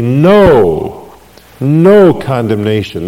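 preacher hammering No, no home to the congregation; emphatic no. Shown as a demonstration. Preacher to congregation, stressing the apostle's No, no. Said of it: "the apostle writes it emphatically".

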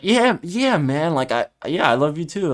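lightly acted lump in the throat; imitating choked up. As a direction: retell it as if barely able to get words out. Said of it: "it was hard for me to speak because I was about to cry".

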